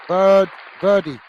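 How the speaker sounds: French twang. Shown as a demonstration. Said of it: "now I've just said it that way".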